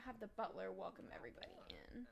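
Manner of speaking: whisper. Real, not acted. Muttering game instructions to herself.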